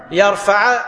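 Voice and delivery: "يرفع" ending in an "a" vowel; fatha ending. Shown as a demonstration. Teacher shows the rejected vowel, "يرفع" ending in fatha. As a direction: finish "يرفع" with a short a after the ع. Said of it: "لو حركوه بالفتح".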